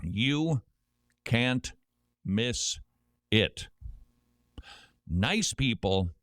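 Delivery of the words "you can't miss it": You, can't, miss, it each set apart by pauses; slow spaced quote. Retold or imitated. Host quoting Boston locals giving directions, word by word. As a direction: space the words out one by one. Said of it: "four words you do not want to hear".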